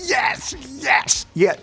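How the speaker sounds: joyful cheer. Retold or imitated. Dancing alone in joy.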